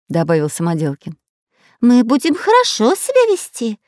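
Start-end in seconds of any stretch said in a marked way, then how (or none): 1.8-3.8 frightened. A narrator's reading. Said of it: "испуганно закивал головой шпион Дырка".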